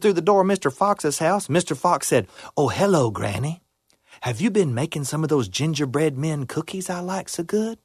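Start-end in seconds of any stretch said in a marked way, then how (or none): 2.5-7.8 sly fox voice. Acted. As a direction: greet her like a sly fox.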